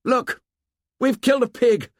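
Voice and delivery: put-on high, loud excited boy's shout; excited hail. A narrator's reading. Jack hailing Ralph excitedly after the hunt. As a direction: call out thrilled with the kill. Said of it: "hailed Ralph excitedly".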